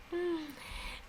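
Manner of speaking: soft, high sigh; exasperated sigh. Real, not acted. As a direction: let out a quiet exasperated sigh. Weary of chasing coworkers and children.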